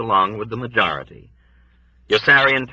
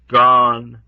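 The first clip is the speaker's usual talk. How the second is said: high, louder mournful word; mournful old woman; 4 semitones higher, 6 dB louder than usual. A narrator's reading. Old woman's flat answer.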